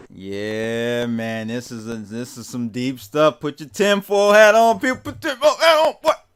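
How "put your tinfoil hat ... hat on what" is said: American vernacular accent. Introducing the main topic to your audience, slip into a put-on Black voice. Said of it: "Now that's my black voice there for you".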